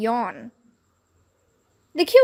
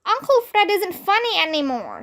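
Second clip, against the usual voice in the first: put-on much higher jeering kid; booing shout; 8 semitones higher than usual. A narrator's reading. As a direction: jeer from the crowd. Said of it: "somebody shouted".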